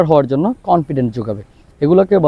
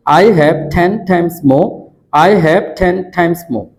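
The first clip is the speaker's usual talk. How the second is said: "I have ten times more" drawn out very slowly, the r of "more" dropped; slow drill; much slower than usual. Shown as a demonstration. Teacher repeating the drill line slowly for students. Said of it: "এভাবে এক নিঃশ্বাসে দশ বারের মতো".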